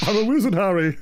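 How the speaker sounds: hammed-up movie quote voice; mock Hagrid line. Friend joking about IT magic, hammed-up movie quote. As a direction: deliver it like a film line. Quoting Harry Potter line.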